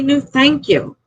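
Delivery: "No, thank you." pitched high and exasperated; a fed-up high "No, thank you.". Shown as a demonstration. Explaining to a rude customer how to decline, exasperated and high. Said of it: "Just say".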